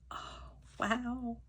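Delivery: high, teary voice breaking with happiness; overcome, fighting back happy tears; crying from joy. Real, not acted. Unboxing a pin, she tears up with joy, voice breaking. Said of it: "I didn't mean to cry".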